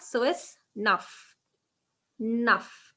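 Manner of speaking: neuf said slowly as nuff; slow model pronunciation. Shown as a demonstration. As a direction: stretch neuf to show the nuff sound. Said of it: "just use the neuf part".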